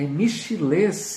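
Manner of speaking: Michilês with stress on the last syllable, drawn out; Michilês, tentative pronunciation. Shown as a demonstration. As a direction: try out Michilês slowly, landing on LÊS. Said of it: "não sei se eu tô pronunciando certo". (Michilês devagar, com a tônica no fim)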